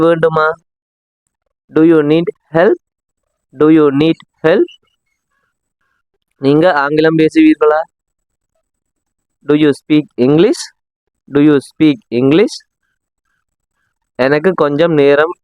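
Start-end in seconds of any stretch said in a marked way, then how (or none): 3.5-4.7 "Do you need help?" said slowly, each word spaced out; slow it down so learners can copy; slower repeat. Shown as a demonstration. Teacher repeats slowly for learners to copy. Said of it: "நீங்களும் என்னோட சேர்ந்து சொல்லிட்டு வாங்க". 11.3-12.5 "Do you speak English?" said slowly and spaced out; slow it down so learners can copy; slower repeat. Shown as a demonstration. Teacher repeats slowly for learners to copy. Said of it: "நீங்களும் என்னோட சேர்ந்து சொல்லிட்டு வாங்க".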